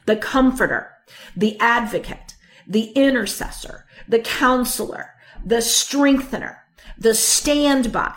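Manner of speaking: each title set apart by a pause, from "Comforter" to "Standby"; measured list, pausing before each title like "Advocate"; spaced-out emphatic list. Real, not acted. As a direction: let "Advocate", "Intercessor", "Counselor" each land on its own. Reading titles one by one for emphasis.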